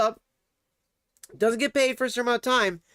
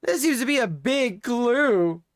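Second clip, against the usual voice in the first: Batman voice; 3 semitones higher, slower than usual. Retold or imitated. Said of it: "I had to make that reference".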